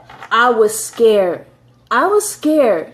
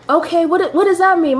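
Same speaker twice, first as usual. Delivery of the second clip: raised pitch, puzzled reaction; mildly baffled, higher-pitched query; confused question; 6 semitones higher than usual. Retold or imitated. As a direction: ask the doctor to explain, a little higher. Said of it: "I'm like".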